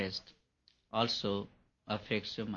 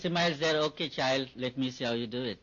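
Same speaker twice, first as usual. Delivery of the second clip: God speaking; 3 semitones higher, 3 dB louder than usual. Acted. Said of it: "And God says".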